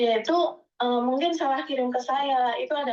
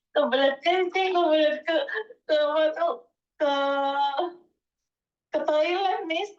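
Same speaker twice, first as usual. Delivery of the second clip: real laugh breaking into the words, higher pitch; 4 semitones higher than usual. Real, not acted. Speaker admits needing the toilet mid-story, laughing. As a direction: giggle through an awkward confession.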